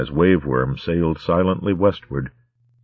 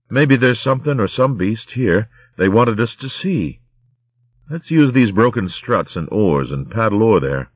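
seal-folk companion voice; 5 semitones higher, 3 dB louder than usual. Acted. Graff speaks.

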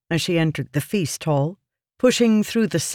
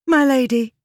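urgent call; 9 semitones higher, 4 dB louder than usual. A narrator's reading. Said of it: "hurrying to the stool beside Yasna".

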